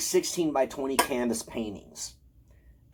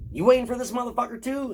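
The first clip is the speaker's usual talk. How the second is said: high-pitched retold question; retold incredulous question; 12 semitones higher, faster than usual. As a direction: re-enact asking a stranger, voice pitched way up. Asks a stranger, retold.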